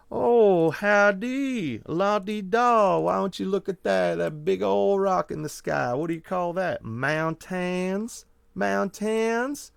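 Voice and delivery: high, slow, hammed-up folksy gentleman drawl; gentleman bumpkin voice. Friends on a road trip mocking college boys in a gentleman bumpkin voice. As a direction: ham up a posh country bumpkin. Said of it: "the gentleman bumpkin voice".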